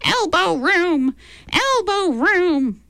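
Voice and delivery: high, slow creaky chant of wooden men; creaking wooden voices. A narrator's reading. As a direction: creak it out like wooden machinery marching. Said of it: "in voices that creaked like wooden machinery".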